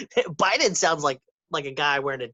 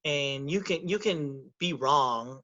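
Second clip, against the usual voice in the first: deliberately paced; 4 dB quieter, slower than usual. Shown as a demonstration. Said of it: "The way you paced it".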